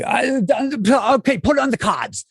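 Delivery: high, mock-irritated Walken; mock angry. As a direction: snap it off in a hammed-up mad Walken voice. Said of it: "like, really mad".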